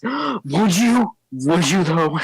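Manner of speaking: high, breathless, overjoyed question; a big hopeful troll, almost squeaking with joy. Acted. Troll to Harmony, thrilled by the dinner offer, high and breathless.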